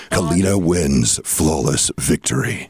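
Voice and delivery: slow, booming fighting game announcer. Acted. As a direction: announce the winner slowly. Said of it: "final boss, Shao Kahn".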